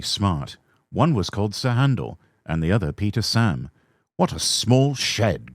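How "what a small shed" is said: grumbling. Acted. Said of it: "grumbled Sir Handel".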